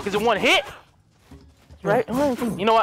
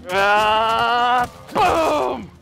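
attack cry. Pretend. Voices the attack.

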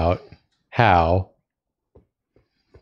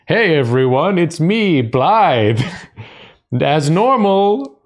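higher, playful imposter voice; fake Blythe voice; 7 semitones higher, slower than usual. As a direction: pretend to be Blythe, badly. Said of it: "was like".

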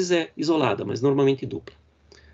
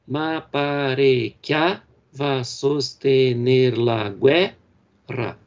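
ma pare che va sostener la guerra, drawn out slowly with each accent marked; scanned verse; much slower than usual. Shown as a demonstration. Teacher scanning a Dante line slowly to show the accents. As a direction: beat out the stressed syllables slowly. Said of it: "na quarta e na décima".

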